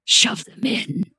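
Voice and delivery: slow, grave manager's command; insistent manager. A narrator's reading. Manager insists the customer feed him, gravely insistent. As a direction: draw out each word as a solemn order.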